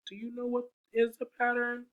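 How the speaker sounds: high, fast playful question; bright quick teacher question. Acted. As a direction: tease the kids with a question.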